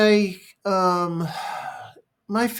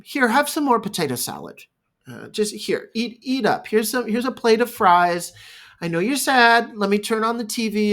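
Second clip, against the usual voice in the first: lightly voiced parent, higher pitch; distracting parent; 5 semitones higher than usual. Parent offering food to a sad child, mock distracting. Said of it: "there's a distraction".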